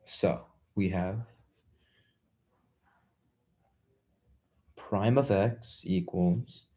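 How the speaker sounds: breathless, slow and quiet; running out of air mid-sum; out of breath. Real, not acted. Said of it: "I'm running out of breath".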